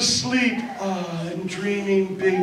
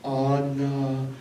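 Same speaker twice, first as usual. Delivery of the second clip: eerie calling. Acted. Skull calls into sleeping Anna's brain, eerie. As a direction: call her name like a spirit inside her head. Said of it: "And he says".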